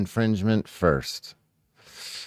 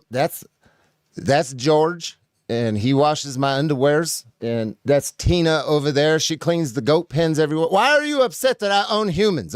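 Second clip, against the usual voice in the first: lightly raised, indignant "it's legal" voice; smug law-abiding owner; 3 semitones higher than usual. Acted. Mocking a plaintiff by voicing a smug, indignant owner. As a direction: play a smug owner who thinks the law excuses anything.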